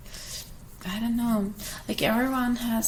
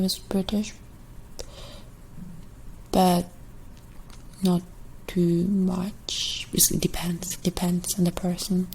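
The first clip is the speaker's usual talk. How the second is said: ASMR whisper; slower than usual. Acted. ASMR creator whispering to viewers while working, hushed whisper. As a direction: breathe the words to the viewer.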